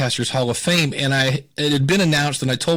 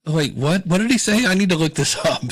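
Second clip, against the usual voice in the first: mock surprise; 4 semitones higher than usual. Imagined mainstream discovering podcasts.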